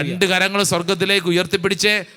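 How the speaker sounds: urgent, rhythmic rallying calls; fervent prayer leading. Real, not acted. Preacher urging the congregation to call on the Holy Spirit, fervent and insistent. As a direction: drive the crowd on without letting up.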